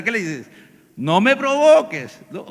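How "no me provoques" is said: loud, high, drawn-out warning; exasperated raised-voice threat; about to blow. Acted. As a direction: stretch it out slowly, ready to explode. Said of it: "a punto ya de reventar".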